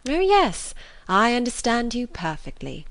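high, knowing reply; lively young Elizabeth. Acted. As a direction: swoop up high on the yes, teasingly. Elizabeth answers Bingley playfully.

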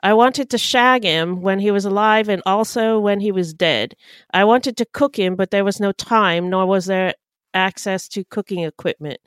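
killer's confession in an attempted posh accent; posh British accent. Shown as a demonstration. Host trying the killer's confession in a posh British accent. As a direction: read it out like a posh Brit. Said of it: "posh accent".

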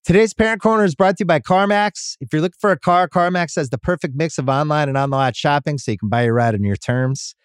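ad read. Acted. Host reading a CarMax sponsor spot, upbeat ad voice.

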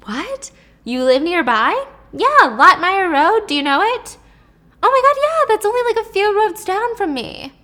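squealing high disbelief; freaking out. Retold or imitated. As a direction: shriek it, way up high and loud. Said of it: "So Noelle's freaking out".

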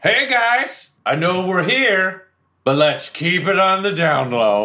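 high, slow hushed plea; high, drawn-out stage hush; hushed mock whisper. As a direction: say it like a secret to the room, slowly. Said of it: "I just say".

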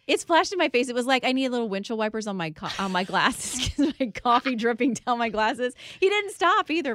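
loud, laughing through the coffee story. Real, not acted. Telling the host about the coffee spill, laughing loudly.

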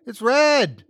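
high, loud shocked cry of realization; alarmed exclamation. A narrator's reading. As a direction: blurt it out in sudden horror. Shocked echo of the report.

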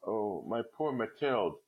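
slow, hushed pity; deeply moved. Acted. Friend taking her two hands, slow and deeply moved. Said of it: "deeply moved".

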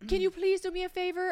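high-voiced, rough German accent; imitated German accent. Stranger asking a traveller for a favor, imitated German accent. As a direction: plead politely in a put-on German accent. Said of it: "she definitely had a thick accent".

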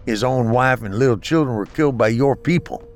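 slurred from a blow to the face; slurring. Acted. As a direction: slur the words, hurt and winded. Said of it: "slurring his words from a hit on the face".

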